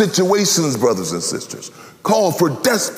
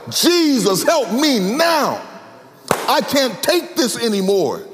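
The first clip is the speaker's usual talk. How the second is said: crying out; 3 semitones higher than usual. Shown as a demonstration. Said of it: "you've got to cry out".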